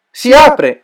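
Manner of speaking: high, loud cry of joy; exulting. Acted. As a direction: cheer as the box opens. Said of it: "esultò Belciari".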